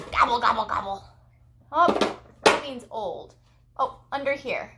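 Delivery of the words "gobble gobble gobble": quick gobbles dropping away; turkey gobble. Shown as a demonstration. Teaching a toddler what the turkey says, quick gobbling. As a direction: gobble in a tumbling run of three. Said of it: "The turkey says".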